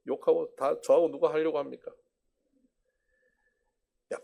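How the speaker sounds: ordinary delivery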